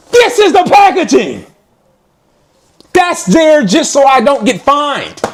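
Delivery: Marshawn Lynch impression. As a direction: belt it like a stubborn athlete at a press conference. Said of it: "I'm doing my Marshawn Lynch".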